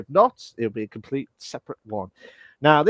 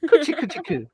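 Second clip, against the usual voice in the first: high-pitched coochie-coo cooing; cheek-pinching baby talk; 12 semitones higher than usual. Pretend. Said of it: "you just grab someone's cheek".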